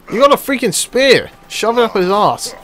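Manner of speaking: loud, high frustrated shout; exasperated yelling. Real, not acted. Gamer yelling at a teammate to use his spear, loud and high. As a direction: urge him on with disbelief.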